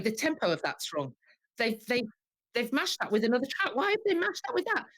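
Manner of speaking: retold fury. Audience member hating the musical's mashed-up tracks, furious. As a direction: rant at the musical, pitch shooting up. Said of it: "I was furious".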